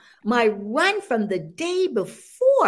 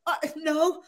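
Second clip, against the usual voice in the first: laughing deflect; 5 semitones higher, 5 dB quieter than usual. Retold or imitated. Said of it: "And I'm like".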